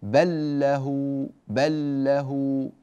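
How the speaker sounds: slow بل له as ballah, held lam; merged double lam. Shown as a demonstration. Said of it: "demo of merged lam".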